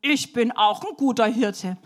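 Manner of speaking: a touch of pride, lightly voiced; proud boy. Shepherd boy answering the wanderer, proudly. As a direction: declare it proudly like a young shepherd. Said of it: "Da sagt der Junge ganz stolz".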